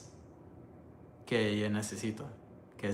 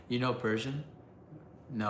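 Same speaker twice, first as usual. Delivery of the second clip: ordinary talk, nothing marked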